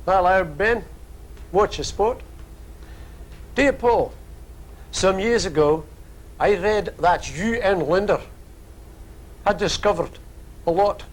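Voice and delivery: reading the letter in a hammed-up Australian accent; mock Australian accent. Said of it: "doing the Australian accent".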